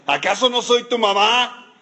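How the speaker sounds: guilt-trip like a mom; a hint of an exasperated mother; complaining mother. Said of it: "Bueno, ahí está".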